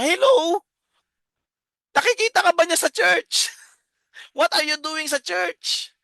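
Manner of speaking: ventriloquist's dummy, high and mocking; ventriloquist puppet voice. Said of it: "yung pagbibentriloquist ko".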